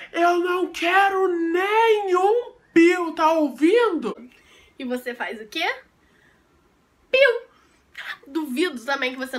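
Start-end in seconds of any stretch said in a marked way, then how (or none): 0.1-4.2 slow, drawn-out stern mother warning; stern mom. Retold or imitated. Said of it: "sabe quando a sua mãe fala assim". 7.1-7.4 defiant peep. Pretend. Defiant peep after mom's warning.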